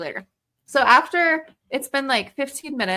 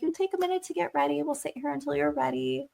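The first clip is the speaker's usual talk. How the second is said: trying to be nice; 3 semitones higher, 4 dB quieter than usual. Retold or imitated. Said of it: "I was trying to be nice".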